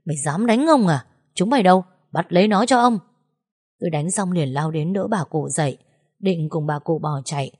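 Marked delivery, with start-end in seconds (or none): 0.1-3.0 a mild roar, holding a bloodied mouth. Acted. Young master hit in the face, calling his thugs, a mild roar. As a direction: bellow for his men, stung and outraged. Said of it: "ôm miệng gầm lên".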